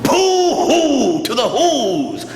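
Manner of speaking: ordinary delivery, nothing marked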